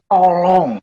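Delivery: slow, measured voice of God; slow, deliberate divine appeal; God speaking. Acted. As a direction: speak as God, drawing out each phrase. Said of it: "Bahkan dia bilang".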